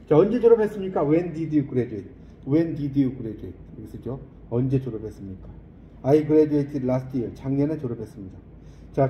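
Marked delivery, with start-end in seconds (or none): 1.1-3.6 very slow, clear English sentence for repeating; slow model reading. Shown as a demonstration. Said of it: "model reading for students". 6.0-7.3 very slow, clear English sentence for repeating; slow model reading. Shown as a demonstration. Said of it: "model reading for students".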